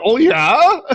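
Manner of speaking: mock squeaky high "oh yeah", rising; a high, rising, mock-surprised oh yeah; high squeak. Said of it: "And the other was like".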